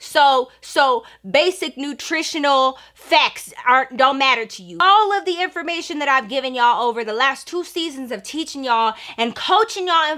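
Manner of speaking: retold scolding lecture. Coach lectures the team, retold.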